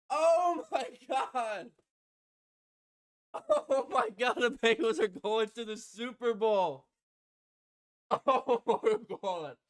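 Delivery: slow oh my god through laughter; laughing disbelief. Real, not acted. Fan laughing at the win, slow joyful disbelief.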